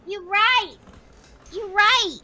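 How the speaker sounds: loud high burst of realization; surprised shout. Real, not acted. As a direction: blurt it out loud, caught off guard.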